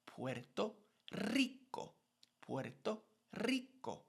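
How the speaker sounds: Puerto tapped soft, Rico trilled high. Shown as a demonstration. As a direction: tap Puerto's r, roll Rico's r. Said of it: "single D and double D".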